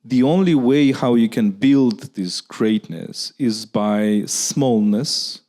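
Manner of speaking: "smallness" drawn out very slowly with weight; stressing the key word. Shown as a demonstration. Lecturer at Q&A stressing "smallness", very slow and weighty. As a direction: lean on "by smallness", let it land slowly. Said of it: "if you stress the word great".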